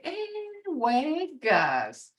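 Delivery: playful Hey, wait, guys; humorous. Shown as a demonstration. Grandparent teasing grandkids with a funny command. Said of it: "kinda got this, um, humorous tone to it".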